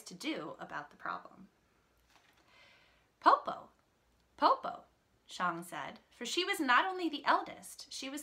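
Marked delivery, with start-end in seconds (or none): 3.2-4.8 put-on high child-like call. Shang calls to Popo in the story, calling out high. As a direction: call out high and bright to get attention.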